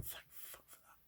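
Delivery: breathless whispered relief. Retold or imitated. Recalling the boil popping on the garden stairs, whispered relief. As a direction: breathe it out unvoiced. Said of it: "I was like".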